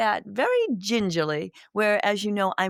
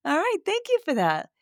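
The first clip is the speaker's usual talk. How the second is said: voicing Spirit; 4 semitones higher than usual. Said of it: "a little chuckle from Spirit saying".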